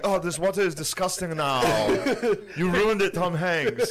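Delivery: high-pitched comic grumbling; mock Nazi complaint. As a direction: whine in hammed-up disgust. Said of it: "the Nazis being like".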